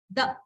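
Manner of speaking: "the" with tongue out; th sound. Shown as a demonstration. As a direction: demo the "th" sound. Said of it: "that is called the".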